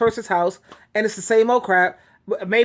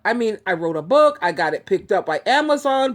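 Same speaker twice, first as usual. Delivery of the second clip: ordinary talk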